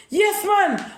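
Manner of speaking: a quick imitated yell; retold shout. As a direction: bark it like the heated man. Man shouting in argument.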